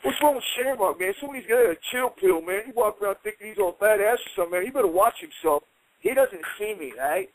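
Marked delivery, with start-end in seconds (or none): 0.0-5.6 higher, mocking trash talk; mocking Knobbs. Knobbs mocking Shamrock to the boys, sneering and higher. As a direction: sneer at Shamrock behind his back. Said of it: "I hear this guy go".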